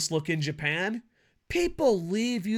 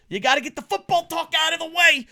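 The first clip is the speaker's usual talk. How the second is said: raised insistence; 10 semitones higher, 4 dB louder than usual. Pretend. Mock-insistent aside on football talk.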